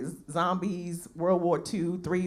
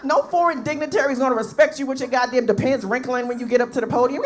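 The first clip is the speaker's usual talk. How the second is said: normal talking voice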